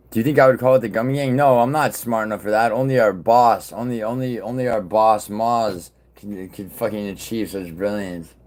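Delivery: hammed-up fawning over the boss; sarcastic mock praise. Real, not acted. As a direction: gush over the boss with heavy irony.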